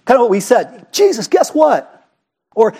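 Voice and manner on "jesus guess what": high, drawn-out excited call; mock-eager disciple, pitched high and slow; excited report. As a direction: act out bursting with news for Jesus. Acting out apostles' excited report.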